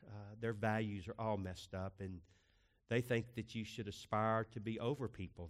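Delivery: hushed closing prayer. Acted. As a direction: pray quietly and reverently.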